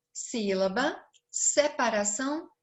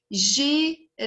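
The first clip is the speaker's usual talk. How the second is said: Girafa split into Gi - ra - fa; three separate, held beats on Girafa; syllable by syllable; 2 semitones higher, 3 dB louder than usual. Shown as a demonstration. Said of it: "Três sílabas".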